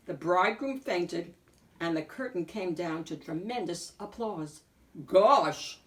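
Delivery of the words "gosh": amazed gasp. Acted. Wolf amazed at the show.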